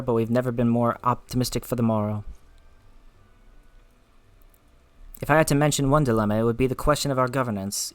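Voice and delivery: put-on a light Scottish accent for Lena. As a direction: read her lines in a gentle Scottish brogue. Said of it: "Lena has a Scottish accent".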